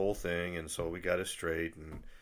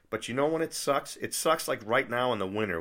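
annoyed complaint; 5 semitones higher, 4 dB louder than usual. Real, not acted. Complaining about German car rule.

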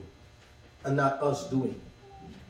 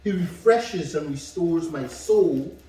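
slow, deliberate psalm reading; slow solemn reading to the congregation; scripture reading; slower than usual. Acted. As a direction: give each phrase weight, slowly. Reads Psalm aloud.

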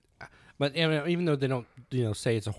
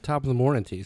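lightly attempted Irish accent. Shown as a demonstration. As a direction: show off a quick Irish lilt. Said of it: "See, just like that".

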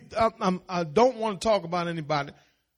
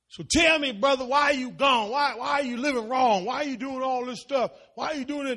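higher-pitched, softer mock scolding; mock nagging; 4 semitones higher, 4 dB quieter than usual. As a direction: play the judgy church member, lightly. Preacher mimics nagging churchgoers.

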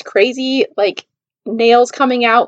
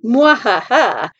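slow, mock-evil cackle; villainous laugh; much slower than usual. Someone in the office plotting a match, villainous laugh. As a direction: draw out a scheming villain's laugh. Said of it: "somebody up in the office was like".

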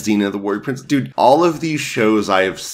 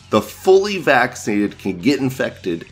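mocking, laughing; 5 semitones higher than usual. Mocking Biden's words, laughing.

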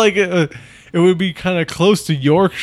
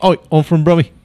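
put-on Brummy accent; 3 semitones higher, 4 dB louder, faster than usual. Host playing a Birmingham local, Brummy accent. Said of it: "that's why they call it Brummy".

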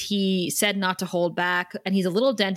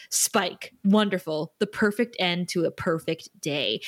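sarcastic; 3 semitones lower than usual. Retold or imitated.

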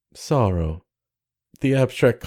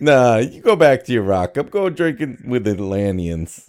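wise guy voice. Acted. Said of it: "the wise guy of the sea".

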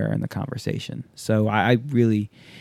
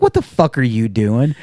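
louder, incredulous question; louder exasperated; 6 dB louder than usual. Retold or imitated. To Waz as he practices the intro, louder exasperated. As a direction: call him out loudly. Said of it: "I'm like".

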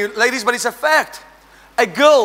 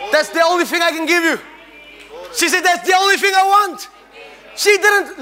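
raised, fervent preaching voice; wife's line shouted from the pulpit; 4 semitones higher than usual. Real, not acted. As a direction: hit the climax for the congregation. Preaching climax on wife story.

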